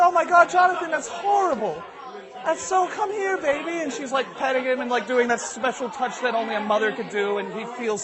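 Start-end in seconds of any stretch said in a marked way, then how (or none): 0.0-3.8 high-voiced motherly horror, easing off; sympathetic mom. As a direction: start aghast, soften into comforting.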